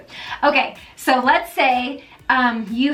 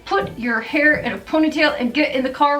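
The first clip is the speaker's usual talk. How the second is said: put-on yelling at teen; 3 semitones higher, faster than usual. Frazzled mom yelling at teenager to hurry to the car, hurried scolding. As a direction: bark orders at the teen, rushed. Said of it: "you yell at your teenager".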